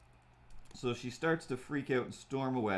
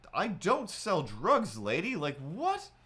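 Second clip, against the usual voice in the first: slow, swooping disbelief; mock incredulity; 5 semitones higher, slower than usual. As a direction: act out a baffled, offended comeback. Acted indignant reply to accusation.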